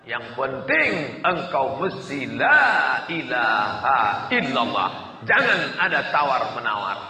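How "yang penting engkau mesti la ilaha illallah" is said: slowed creed. Shown as a demonstration. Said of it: "preacher slows to stress creed".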